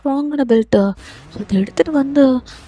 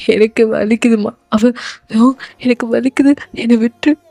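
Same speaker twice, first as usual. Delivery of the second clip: acted anguished confession; mildly tearful, despairing son; close to tears; 3 semitones lower, 5 dB louder than usual. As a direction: plead helplessly to mother. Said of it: "எனக்கு அழுக வருதும்மா".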